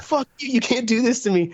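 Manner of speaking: squeaky high angry snake; cartoon snake cursing at the family.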